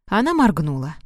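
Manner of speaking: ordinary delivery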